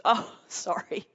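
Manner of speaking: slow, giggling "oh, sorry"; a retold helpless laugh; laughing apology. Daughter at the funeral home, apologising through slow giggles. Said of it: "she starts laughing hysterically".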